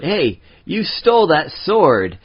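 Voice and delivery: mock yell. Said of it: "somebody yells out".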